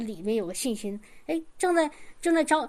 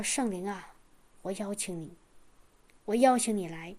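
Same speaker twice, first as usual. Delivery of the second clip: low, much softer prayer of invitation; hushed prayer; 5 semitones lower, 5 dB quieter than usual. Retold or imitated. Eyes closed, inviting the Holy Spirit, hushed and low.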